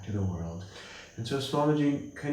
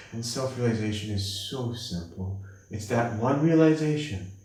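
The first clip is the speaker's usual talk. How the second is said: normal talking voice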